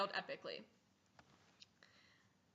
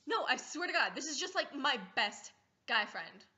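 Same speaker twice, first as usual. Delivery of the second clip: defensive; 3 semitones higher, 4 dB louder than usual. Pretend. Defending to parent.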